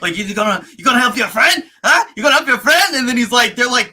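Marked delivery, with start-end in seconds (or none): 0.1-2.9 higher, pushy acted threat; mock menacing demand. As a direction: press the question like a movie thug. Acting out a threatening interrogation scene.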